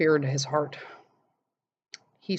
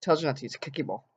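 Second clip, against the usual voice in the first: snarky; 3 semitones lower, 5 dB quieter, much faster than usual. Retold or imitated. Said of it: "with her snarky little attitude going".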